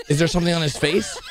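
usual speaking voice

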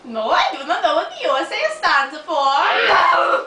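put-on Russian accent. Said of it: "Why do you have Russian accent".

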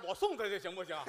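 normal talking voice

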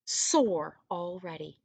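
mild hammed-up whine; whining. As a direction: drag out the sore hands. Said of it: "whined the second son".

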